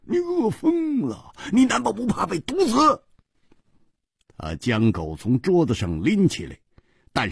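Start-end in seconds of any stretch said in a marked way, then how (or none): 0.1-3.0 high, teasing laughing tone. Acted. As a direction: laugh at the dog as you scold it. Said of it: "胡铁花笑着说". (胡铁花笑着对狗说话)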